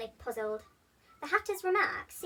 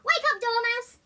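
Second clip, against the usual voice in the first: much higher, much louder call; 11 semitones higher, 8 dB louder than usual. A narrator's reading. The Hatter and March Hare shout at the sleeping Dormouse. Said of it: "they both cried".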